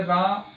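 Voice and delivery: रा drawn out long as if calling; stretched calling Ra. Shown as a demonstration. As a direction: call out रा, holding the vowel. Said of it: "राम को थोड़ा खींच के बुलाओगे". (राम को बुलाते हुए रा लंबा खींचकर)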